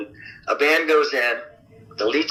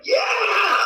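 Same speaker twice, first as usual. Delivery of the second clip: a sudden high whooping yeah, much higher; excited cheer. Retold or imitated. Band in the control room cheering the singer, high excited whoop. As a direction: cheer like the whole band loves the take.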